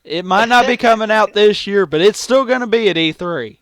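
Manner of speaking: loud, high, incredulous rant; heated, shouted objection; exasperated shout. Real, not acted. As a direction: raise your voice in disbelief at their stupidity. Exasperated rant at absurd list.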